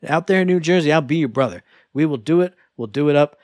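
put-on New Jersey accent. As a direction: lightly do a New Jersey guy. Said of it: "I will do the New Jersey accent".

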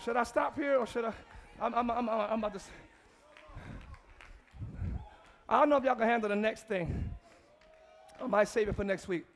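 soft, low, fast teasing close; hushed wind-down. Real, not acted. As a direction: ease the church down. Quiet wind-down of sermon.

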